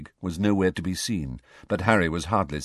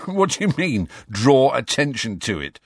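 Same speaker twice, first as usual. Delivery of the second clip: half laughing; 6 semitones higher, 5 dB louder than usual. A narrator's reading. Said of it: "half laughing".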